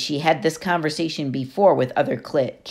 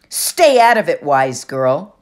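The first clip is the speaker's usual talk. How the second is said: dismissive bully; 6 dB louder, slower than usual. Acted. Clarice warns Annabeth off, loud contemptuous order. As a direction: shut her down with contempt.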